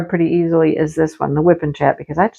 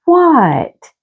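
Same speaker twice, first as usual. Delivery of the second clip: startled what; 8 semitones higher than usual. Retold or imitated. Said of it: "And I was like".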